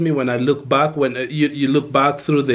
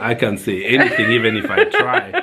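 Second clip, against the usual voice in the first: kind gentle laugh; 3 semitones lower than usual. Real, not acted. Laughing at himself.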